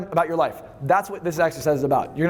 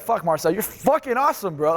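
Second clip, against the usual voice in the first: excited self-hype; 3 semitones higher than usual. Shown as a demonstration. Coach showing how he'd praise himself, excited. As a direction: pump yourself up like a buddy. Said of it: "That's how I say it".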